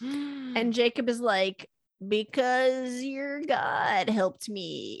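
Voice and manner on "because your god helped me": slow, stretched-out words; drawn-out answer. Retold or imitated. Jacob explains his speed to his father, drawn-out. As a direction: say it slowly, spacing it out.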